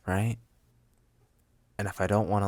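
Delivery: normal talking voice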